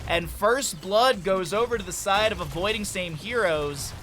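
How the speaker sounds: loud, driving esports commentary; energetic shoutcasting; live play-by-play. Real, not acted. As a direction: call the action as it happens. Live play-by-play of first blood.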